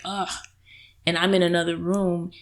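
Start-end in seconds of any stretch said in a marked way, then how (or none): 0.0-0.3 annoyed groan. Retold or imitated. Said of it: "he'll just be like".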